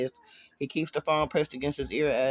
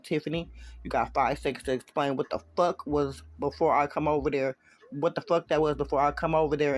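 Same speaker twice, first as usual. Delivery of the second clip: ice cold. Acted. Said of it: "Jay's voice is ice cold".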